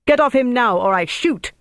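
high, loud yelled threat; yelling. A narrator's reading. Officer threatens his own men at gunpoint, yelling. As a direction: yell it as an armed warning. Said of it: "he yelled at the top of his voice".

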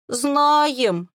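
a hint of bawling children; wailing children. A narrator's reading. Girls confessing to Quinn, mildly wailing. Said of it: "заревели все трое сразу".

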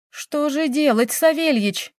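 high-pitched, helpless appeal; distraught appeal. A narrator's reading. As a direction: appeal to someone for help, lost. Distraught countess asks butler for help. (растерянная мольба)

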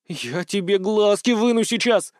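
bloodthirsty. Acted. Girl threatens the man who insulted her, bloodthirsty and slow. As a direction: promise violence slowly with glee. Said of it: "кровожадно пообещала она".

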